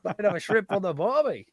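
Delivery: joky, exaggerated Australian twang; mock Australian accent. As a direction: send up a botched accent as broad Australian. Mocking the accent as accidentally Australian.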